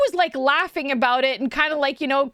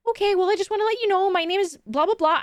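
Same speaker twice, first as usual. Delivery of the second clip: quick, lightly imitated bashful man; shy stranger; 4 semitones higher, faster than usual. Shy man introducing himself to tourists, lightly imitated. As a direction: mimic a timid guy introducing himself. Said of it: "overly shy".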